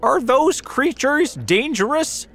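very high, loud officer's demand; urgent, high-pitched questioning yell; shouted question. A narrator's reading. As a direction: shout up in alarm. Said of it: "shouted the police officer".

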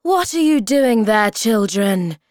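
high, loud motherly scolding; crying out. A narrator's reading. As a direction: call sharply to the children. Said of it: "she cried".

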